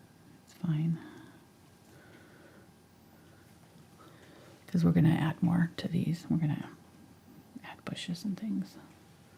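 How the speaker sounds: quiet, focused whisper. Giving painting directions while focused, whispering. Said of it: "I don't know why I'm whispering".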